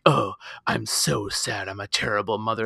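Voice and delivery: lightly voiced brooding mother, dragged out; mocking mopey Sarah. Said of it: "all menacingly".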